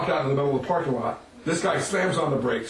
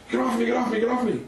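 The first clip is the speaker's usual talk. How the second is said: high, frantic repeated protest; mock panic; 8 semitones higher, faster than usual. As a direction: squeal it as if fending someone off. Attacker flailing in retold panic.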